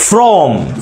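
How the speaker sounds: "from" given extra weight and length; stress on FROM. Shown as a demonstration. Teacher showing the stressed preposition, a weighty, slow "from". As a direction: lean on from, drawing it out slowly. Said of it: "সাউন্ডটা একটু জোর দেই".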